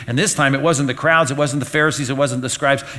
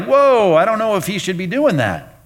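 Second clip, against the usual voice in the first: mock doubtful disciples; 6 semitones higher, 3 dB louder than usual. Disciples doubting Jesus, mimicked.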